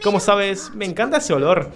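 soft, lightly acted game reading; gentle sister dialogue. Sister giving her brother a protective amulet, gently voiced. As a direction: read it gently, voice held down.

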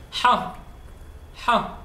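a forceful throaty Ha, like after spicy food; strong Ha sound. Shown as a demonstration. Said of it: "The next letter is".

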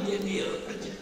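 very soft, dropped voice; dramatic hush. A narrator's reading. Preacher hushing the crowd about the silent youth, very soft. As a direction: let it fall to almost nothing.

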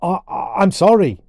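high, loud, startled stammer; flustered boy, voice jumping up; stammered apology. A narrator's reading. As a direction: stumble into the apology. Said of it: "stammered Colin".

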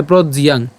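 "প্রজ্জিয়াং" as proj-yang, j then y; separated conjunct. Shown as a demonstration. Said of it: "ইয়কে আলাদা উচ্চারণ করে ইয়াং". ("প্রজ্জিয়াং", জ আর ইয়াং আলাদা করে)

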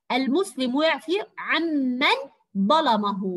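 slow, phrase-by-phrase reading with a doubled m in عمن; careful classroom reading, عمن said "am-man"; model sentence reading. Shown as a demonstration. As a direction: read it deliberately, holding the "mm" of عمن. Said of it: "أقرأ الجملة وألاحظ الحرف المشدد".

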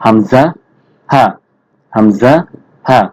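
হামজা and হা said firmly from the start of the throat; hard throat letters. Shown as a demonstration. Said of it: "একটু শক্ত করে উচ্চারণ হবে". (কণ্ঠনালীর শুরু থেকে শক্ত করে হামজা, হা)

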